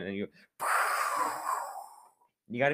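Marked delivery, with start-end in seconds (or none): 0.6-1.8 ground caving rumble. Shown as a demonstration. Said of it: "That's all the ground caving in".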